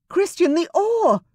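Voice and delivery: high, loud, sharp-edged shout; exasperated shout. A narrator's reading. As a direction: snap at him in exasperation. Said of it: "Rosamond shouted in exasperation".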